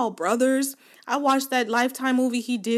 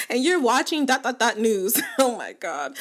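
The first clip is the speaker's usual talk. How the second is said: laughing; 2 semitones higher than usual. Retold or imitated. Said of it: "he was like".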